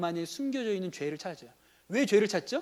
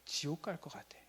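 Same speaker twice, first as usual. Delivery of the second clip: put-on crying child; 2 semitones lower, 13 dB quieter than usual. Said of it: "울어요".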